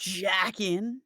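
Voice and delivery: "Jack in" with a rising, punched "Jack"; stress on jack in. Shown as a demonstration. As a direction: hit the word "Jack" and lift it. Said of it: "Put the right emphasis on the right words".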